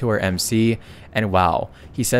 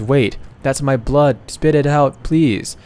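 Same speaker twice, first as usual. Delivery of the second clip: higher-pitched mock urgent plea; 4 semitones higher, 3 dB louder, slower than usual. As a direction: plead in a raised voice, lightly acted. Voices character pleading with dying partner.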